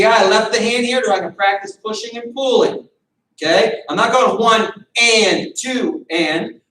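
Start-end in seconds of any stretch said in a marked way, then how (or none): 4.4-6.6 wrong way, broken into separate beats; choppy one and two. Shown as a demonstration. Coach showing students the wrong way, choppy counting. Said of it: "When we're practicing slow".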